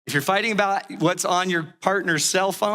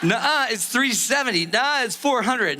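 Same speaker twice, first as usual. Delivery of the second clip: higher, mock squabbling contradiction; childish bickering; 5 semitones higher than usual. Couple fighting about rounding, childishly bickering. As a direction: parody two spouses going back and forth.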